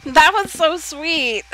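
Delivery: high, slow and moved, on the verge of tears; touched, near tears. Real, not acted. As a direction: let the gratitude almost choke you up. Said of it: "now I'm gonna start crying".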